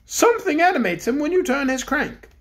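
the Bear King addresses the cook; kindly Bear King. Acted. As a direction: speak as a gentle storybook king. King replies.

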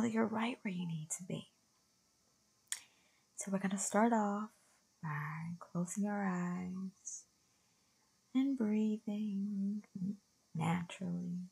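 softly paced, soothing meditation voice; guided meditation. Real, not acted. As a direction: guide listeners gently inward, leaving long pauses.

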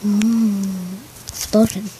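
talking while chewing gum. Real, not acted. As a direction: chew gum through the words. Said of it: "I have gum in my mouth".

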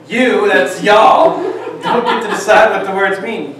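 laughing. Real, not acted. Jokes about y'all.

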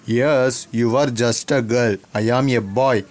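put-on sneering, dismissive bully boy; schoolboy bully. The speaker voicing the bully taunting the new girl, sneering. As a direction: brush her off like a smug bully.

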